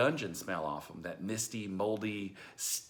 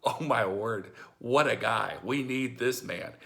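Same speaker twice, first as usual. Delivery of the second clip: amazed delight; 5 dB louder than usual. Retold or imitated. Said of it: "had to just be going".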